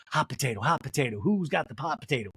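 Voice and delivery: ordinary talk, nothing marked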